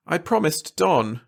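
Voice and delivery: demurely, a little lifted and slow; shy, modest reply. A narrator's reading. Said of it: "she said demurely".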